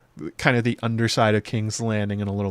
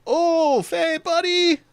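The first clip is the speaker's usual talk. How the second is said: much higher, happy shout of greeting; cheering bar crowd; slower than usual. Retold or imitated. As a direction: greet a regular like the whole bar loves him. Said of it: "Everyone's like".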